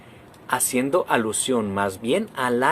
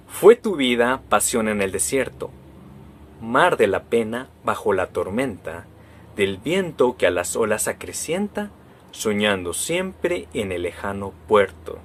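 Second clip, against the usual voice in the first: unhurried recital of a sonnet, each line weighed; poem recital; 2 semitones lower than usual. Shown as a demonstration. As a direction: read it like a poem to the class. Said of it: "Yo les voy a leer un fragmento de un poema". (lectura de poema pausada y sentida)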